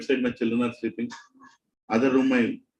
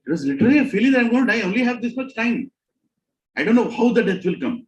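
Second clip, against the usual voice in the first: retold panic; 9 semitones higher, 4 dB louder, faster than usual. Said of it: "I was sweating".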